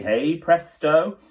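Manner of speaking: slow, loud flourish; triumphant. A narrator's reading. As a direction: announce it like a magic trick.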